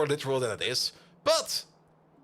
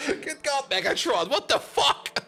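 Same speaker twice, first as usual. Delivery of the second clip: laughing disbelief; 10 semitones higher, 3 dB louder, slower than usual. Real, not acted. Laughing at Megatron's answer.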